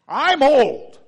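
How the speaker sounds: loud, high acted exclamation; booming self-description; blunt declaration. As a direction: blurt it out at full volume. Acting Zechariah, blunt versus tactful.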